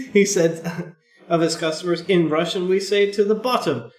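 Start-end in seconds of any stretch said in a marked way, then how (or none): 2.0-3.9 put-on Russian accent. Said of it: "I turned into Russian at the end there".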